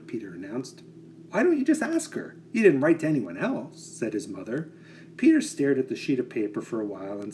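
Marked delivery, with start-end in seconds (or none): 1.3-3.8 mother's voice. Acted.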